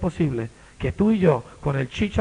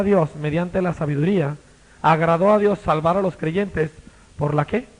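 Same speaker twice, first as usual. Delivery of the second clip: scripture reading; 3 semitones higher than usual. Acted. Reads Corinthians aloud.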